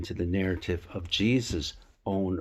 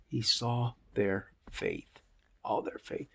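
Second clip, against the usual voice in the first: slow, softer, dropping to a whisper; hushed emphasis; 5 dB quieter, slower than usual. Real, not acted. Teacher stressing to viewers the friends' faith, hushed. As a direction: lean in and hush it down.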